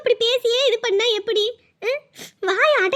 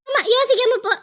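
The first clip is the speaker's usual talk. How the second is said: scornful echo. Acted. Mother throws daughter's words back.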